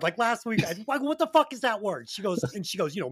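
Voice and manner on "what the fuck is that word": higher-pitched mock exasperation; retold puzzled protest; baffled. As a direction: act out being stumped by a word. Reenacting bafflement at wife's script.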